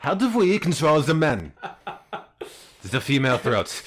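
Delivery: hammed-up evil scientist, slow and laughing; mock villain voice. Mocking a Nazi scientist.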